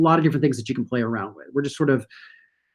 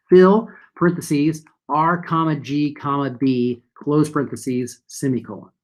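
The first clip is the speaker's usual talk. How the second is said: dictating. Shown as a demonstration. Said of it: "we're going to say".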